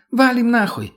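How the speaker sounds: high loud urgent shout. Acted. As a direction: yell it in a panic. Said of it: "сорвалась на крик Лена".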